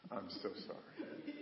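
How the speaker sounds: soft, slow, humble apology. Retold or imitated. Apologizing to Sister Grapefruit, softly and humbly. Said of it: "humble yourself and say".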